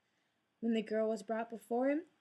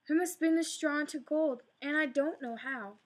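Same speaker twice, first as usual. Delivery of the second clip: crying out; 4 semitones higher, 4 dB louder than usual. Acted. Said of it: "the girl cried".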